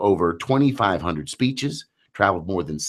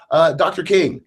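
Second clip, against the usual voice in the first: put-on child voice; 9 semitones higher, 5 dB louder than usual. Voicing six-year-old daughter.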